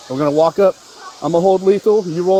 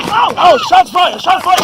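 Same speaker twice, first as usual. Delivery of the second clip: sudden loud alarmed call; alarmed shout; 4 dB louder than usual. Real, not acted. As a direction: yell it out in shock. Gunfire erupts, officer calls out.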